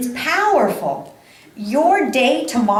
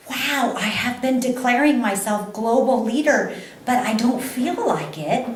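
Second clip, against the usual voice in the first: thrilled squeal at the news; excited inner voice; 2 semitones higher than usual. Retold or imitated. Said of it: "I thought".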